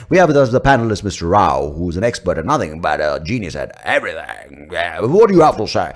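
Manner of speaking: loud BBC-style introduction; panel host. Acted. BBC host introducing Mister Rao, loud panel-host voice. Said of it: "they're like".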